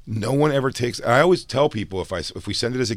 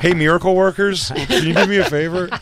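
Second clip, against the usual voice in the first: mock pleading; 8 semitones higher, 4 dB louder than usual. Joking plea to bring father back.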